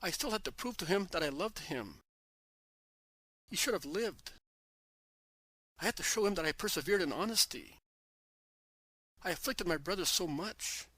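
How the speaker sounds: a sister crying out her loss at his feet; sobbing plea to her master; anguished cry. Acted. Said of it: "she shouts".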